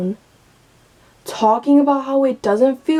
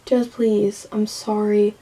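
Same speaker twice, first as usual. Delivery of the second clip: pleading; 2 semitones lower, 3 dB quieter than usual. Retold or imitated. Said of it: "I wanna be like".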